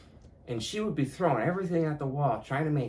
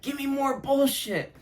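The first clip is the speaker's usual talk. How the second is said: defiant roar, much higher and louder, breaking into a laugh; Giles Corey; 8 dB louder, slower than usual. Retold or imitated. Mocking his younger self, he hams up a roaring martyr's defiance. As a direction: bellow it like a martyr begging for more stones. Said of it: "I acted like Giles Corey".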